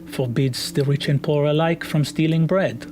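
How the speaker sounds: a hint of a diplomatic woman; lightly voiced guarded woman. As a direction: answer carefully as a guarded wizard.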